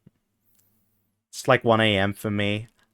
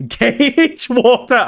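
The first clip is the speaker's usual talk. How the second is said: silly high voice; 11 semitones higher, 4 dB louder, much slower than usual. Pretend. High funny voice.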